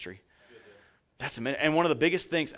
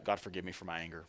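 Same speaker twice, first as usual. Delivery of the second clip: soft, low, quick plea for forgiveness; hushed prayer; 5 semitones lower, 10 dB quieter, faster than usual. Retold or imitated. After smashing the drill, quietly asking God's forgiveness. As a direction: murmur it to God, quieter. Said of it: "I'd just be like".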